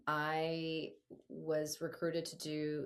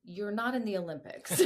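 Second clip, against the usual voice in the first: dad laughing; 4 semitones higher, 4 dB louder than usual. Retold or imitated. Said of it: "And he's like".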